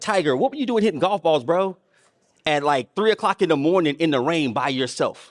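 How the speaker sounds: normal talking voice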